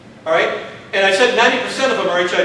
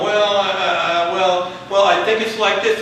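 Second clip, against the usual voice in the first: slow, stumbling and unsure; a halting, fumbling reply; mock muddling; slower than usual. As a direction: hem and haw like you don't know the answer. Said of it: "you start muddling, go".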